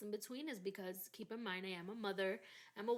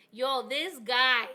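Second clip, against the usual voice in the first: ordinary delivery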